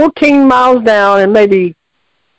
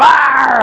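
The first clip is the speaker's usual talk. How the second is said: mock werewolf growl; 2 semitones higher than usual. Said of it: "starts sounding like a werewolf".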